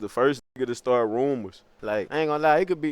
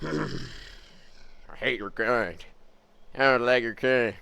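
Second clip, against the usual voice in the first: mock racist; 3 semitones lower, 7 dB quieter, much slower than usual. Voicing a seething racist.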